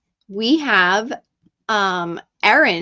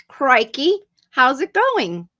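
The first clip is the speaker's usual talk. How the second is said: playful attempt at an Australian accent; bad Australian accent; 3 semitones higher, 3 dB louder, slower than usual. Streamer greets a viewer from Melbourne, badly faked Australian accent. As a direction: try a cheery, badly faked Australian hello. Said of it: "I'm really bad at accents".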